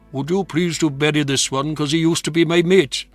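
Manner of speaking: sergeant's plea. Acted. Sergeant asks chaplain to bury his mate, lightly acted plea. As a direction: lift it a little into a soldier's request. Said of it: "Then there spoke a dripping sergeant".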